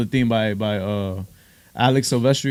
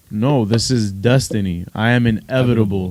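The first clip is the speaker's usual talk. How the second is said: Thanos voice; 5 semitones lower than usual. Retold or imitated. Thanos quote.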